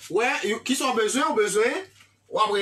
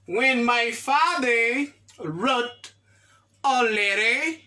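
slow model sentence; slower than usual. Shown as a demonstration. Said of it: "teacher models slowly".

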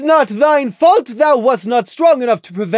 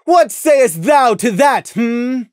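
high, loud, slow scolding; furious princess reproach; stern royal rebuke; 8 semitones higher, 5 dB louder, slower than usual. A narrator's reading. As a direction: condemn him from the throne. Luna rebukes Prey.

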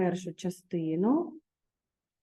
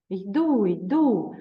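Martino answering the dog; 3 dB louder than usual. Acted. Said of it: "казав Мартіну".

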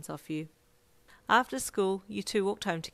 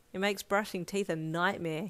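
sighing. Acted. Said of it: "he sighed".

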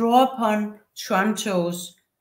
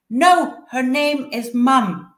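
put-on upset child's cry; 3 semitones higher, 6 dB louder, slower than usual. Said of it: "as she cries with her arms".

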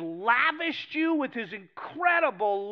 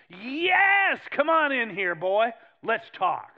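welcoming God; 2 semitones higher, 5 dB louder, much slower than usual. Acted. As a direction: call him in like a glad father.

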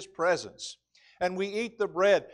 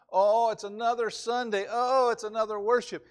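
higher-pitched mock groaning complaint; mock drudgery; 5 semitones higher than usual. Preacher imitating a reluctant worshipper facing another Sunday, mock drudgery. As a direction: drag out each "oh" as a reluctant churchgoer. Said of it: "attitude that worship is a drudgery".

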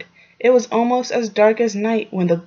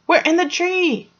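shouted back; 9 semitones higher than usual. A narrator's reading. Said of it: "Fox shouted back".

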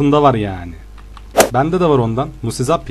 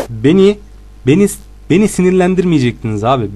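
mock angry; 4 semitones higher than usual. Real, not acted. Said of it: "Beni sinirlendirdiler".

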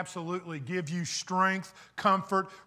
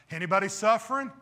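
quick, lightly sarcastic question; mildly sarcastic; 4 dB louder, faster than usual. Retold or imitated. Preacher playing James asking people he knows suffer, mildly sarcastic. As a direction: toss it out as if the answer were obvious. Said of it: "He almost says this sarcastically".

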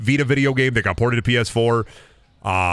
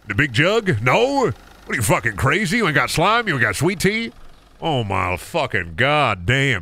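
hammed-up Southern customer griping; exasperated Southern accent. Southern shopper finds no sweet tea, exasperated Southern accent. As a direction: complain in mock disbelief with a Southern accent. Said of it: "the funniest Southern accent encounter".

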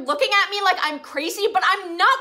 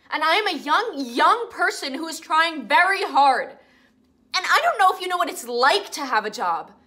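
shrieking. Acted. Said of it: "I won't stop shrieking".

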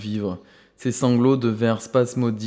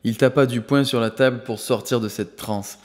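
usual speaking voice

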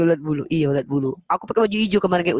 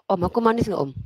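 coy higher flirt; 4 semitones higher, faster than usual. Pretend.

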